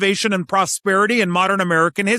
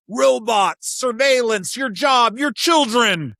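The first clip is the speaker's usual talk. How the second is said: higher-pitched, punched scare list; mock alarm; 5 semitones higher, slower than usual. Mimicking Washington filling the gap with fear, mock alarm. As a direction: rattle off mock scare words emphatically. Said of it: "the loudest emotional thing available".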